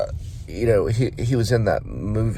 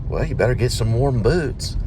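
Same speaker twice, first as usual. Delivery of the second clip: lightly voiced Southern father, pitched up; fatherly voice; 5 semitones higher than usual. Father appearing to his son in the snow, lightly fatherly. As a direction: give a hint of a dad's advice, higher than usual. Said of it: "He talks about his fatherly voice".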